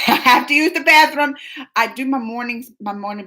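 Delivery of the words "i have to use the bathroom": laughing. Real, not acted. Repeated laughing, far voice.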